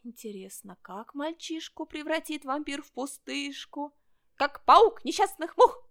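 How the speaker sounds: eerie rhyme building to a high, loud finish; gloating mock ghost. (зловещий стишок с нарастанием до крика)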